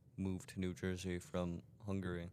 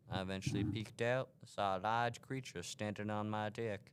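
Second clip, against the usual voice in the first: put-on southern accent. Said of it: "Don't say deck again in the southern voice".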